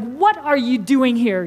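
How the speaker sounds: mock annoyed sibling; mad brother. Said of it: "his brother was mad".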